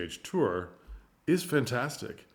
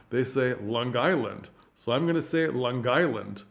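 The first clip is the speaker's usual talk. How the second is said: Long Island accent. Shown as a demonstration. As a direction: lightly imitate a Long Islander saying "Long Island". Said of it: "how people talk in Long Island".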